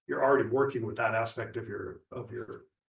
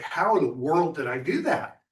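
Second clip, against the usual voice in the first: retold astonishment, higher and louder; amazed; 4 semitones higher, 5 dB louder than usual. Telling the group about sitting without moving, amazed. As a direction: relive your amazed disbelief.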